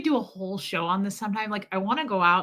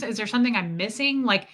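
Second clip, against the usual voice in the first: ordinary talk, nothing marked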